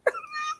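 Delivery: soft snoring noise; a quick, quiet snore in imitation; imitated snore. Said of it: "I'm snoring".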